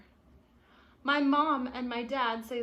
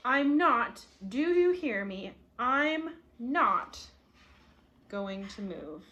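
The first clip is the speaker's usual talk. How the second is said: defiant outburst; slower than usual. Acted.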